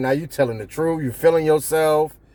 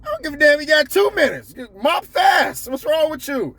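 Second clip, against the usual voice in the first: angry manager; 13 semitones higher than usual. Retold or imitated. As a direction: yell at him like a furious manager. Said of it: "he gonna be like".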